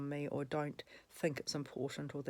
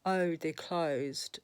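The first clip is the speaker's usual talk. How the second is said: mock; 6 dB louder, much slower than usual. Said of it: "she looked back to me and she says".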